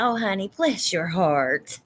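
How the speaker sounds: drawn-out Southern "bless your heart"; sugary Southern put-down, slow; Southern sass. Shown as a demonstration. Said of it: "Nice Southern accent is the best for cursing".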